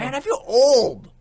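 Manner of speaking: drawn-out, loud lament; mock-despairing shout. Real, not acted. Exclaiming feeling old.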